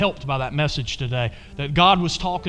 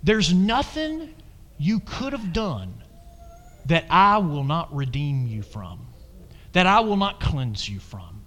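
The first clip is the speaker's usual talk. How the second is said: the Lord speaking; slower than usual. Retold or imitated. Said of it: "what the Lord was saying to me is".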